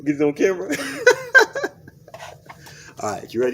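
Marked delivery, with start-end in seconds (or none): 0.7-2.9 high-pitched burst of laughter. Real, not acted. Ticklish client during the foot treatment, high laughter.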